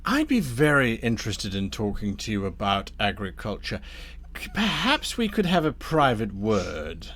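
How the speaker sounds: measured, ingratiating schemer; lightly voiced courteous Damnifer. Damnifer asks Thorn for a private word, lightly voiced smooth persuasion. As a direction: coax them politely aside. Game master plays Damnifer.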